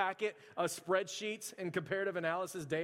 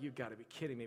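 softer, low stunned mutter under the breath; stunned disbelief; 6 semitones lower, 7 dB quieter, faster than usual. Retold or imitated. Salesman reacting to a rich customer, a quiet stunned mutter. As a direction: say it quietly to yourself, like you can't believe it.

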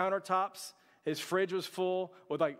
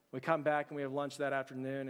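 ordinary talk, nothing marked

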